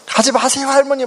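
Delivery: high child's plea, mock tearful; imitated crying plea. Grandchild begging grandma not to leave, mock crying plea. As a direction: act out a small child begging through tears. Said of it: "막 이렇게 막 우는 거예요".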